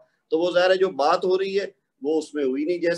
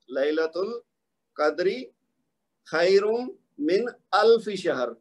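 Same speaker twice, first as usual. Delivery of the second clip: very slow recitation in separate phrases; قرآنی آیت کی تلاوت; much slower than usual. Shown as a demonstration. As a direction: recite word by word, pausing between phrases. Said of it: "قرآن پاک پڑھتے ہوئے". (رک رک کر تلاوت)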